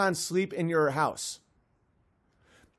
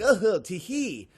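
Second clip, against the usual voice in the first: giggly leprechaun; 5 semitones lower, 4 dB quieter than usual. Acted. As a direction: play a sly leprechaun dropping into a murmur. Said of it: "They're like".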